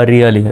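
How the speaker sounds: "really" with one short l, ria-li; single L. Shown as a demonstration. Teacher shows double l sounds as one in "really". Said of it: "একটা এলেরই উচ্চারণ হবে".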